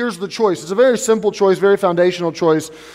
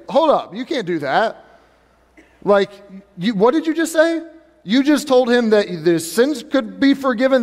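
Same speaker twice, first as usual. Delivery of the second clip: shocked, rising, incredulous objection; indignant disbelief; 2 semitones higher than usual. Acted. Preacher voicing scribes, incredulous and aghast. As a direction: play the outraged scribes, aghast.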